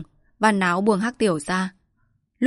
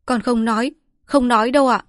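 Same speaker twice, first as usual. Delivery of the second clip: flustered promise; 5 semitones higher, 5 dB louder than usual. Acted. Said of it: "cuống quýt".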